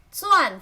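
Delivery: 钻 pitched high for demonstration; high, careful 钻; first tone as named. Shown as a demonstration. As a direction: teach the tone of 钻, starting high.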